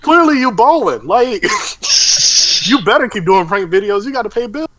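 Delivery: high, loud teasing through laughter; laughing tease. Retold or imitated. Mocking rich prank couples, high and loud, laughing through it. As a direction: rib them while cracking up. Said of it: "And I'm like".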